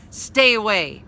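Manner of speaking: frightened warning. A narrator's reading. Scared girl warning circling fairies, loud cry. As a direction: push them away with your voice. Molly threatens the kind folk.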